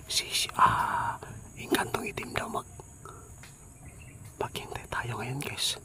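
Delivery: hushed whisper so nobody hears; whispering while hiding. Real, not acted. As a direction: keep it to a breathy whisper. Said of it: "baka makita tayo".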